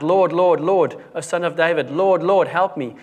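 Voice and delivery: crying out. Acted. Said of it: "crying out".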